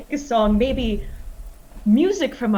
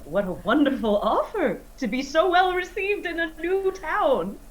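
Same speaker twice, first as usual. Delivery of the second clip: flattering; 4 dB quieter than usual. Acted. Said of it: "act like this is the cleverest thing".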